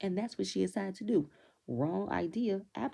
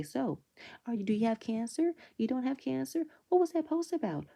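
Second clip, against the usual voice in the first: rising higher with each nosy question; hammed-up interrogation, pitch climbing; mock prying questions; 6 semitones higher than usual. Imitating Giselle's prying questions.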